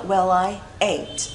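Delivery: slow "Well I ain't", l carried into "I"; linked sounds. Shown as a demonstration. Teacher models for learners, "Well I ain't" slowly linked. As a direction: link "Well I" as "we-lai". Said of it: "nó sẽ là đọc nối luôn".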